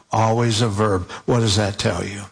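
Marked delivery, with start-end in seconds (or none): 0.1-1.1 always a verb, verb pressed and falling; emphatic repeat. Shown as a demonstration. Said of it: "and just for emphasis".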